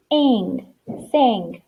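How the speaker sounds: "ang" as one glued sound, then blended into "sang". Shown as a demonstration. Teacher blends a glued sound for pupils, "ang" joined into "sang". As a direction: say "ang" as a single unit, then the whole word "sang". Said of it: "it's making an ang sound".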